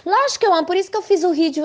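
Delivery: retold reply of an offended mother, high and loud; indignant mother. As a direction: snap back offended, mimicking her.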